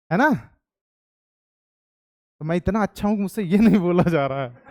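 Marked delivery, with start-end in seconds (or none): 2.4-4.7 laughing. Real, not acted. Jokes he is too good.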